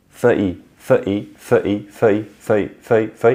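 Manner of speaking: fei repeated, speeding up. Shown as a demonstration. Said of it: "and then get quicker".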